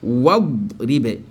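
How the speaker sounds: "wa ribe" joined as wad-ribe, no "i"; silent linking hamza. Shown as a demonstration. Teacher shows the hamza is absent, linked reading. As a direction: link "wa ribe" slowly, leaving the hamza out. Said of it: "Le hamzatu waslu n'est pas prononcé".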